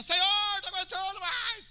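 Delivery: high, loud hammed-up plea; desperate prayer shout. Acting a believer alone on the mount at dawn, desperate shouting. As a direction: cry out to heaven at full voice. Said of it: "e grita lá".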